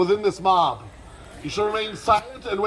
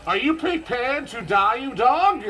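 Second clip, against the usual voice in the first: dramatic challenge; 4 semitones higher than usual. Shown as a demonstration. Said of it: "with all the drama in your heart".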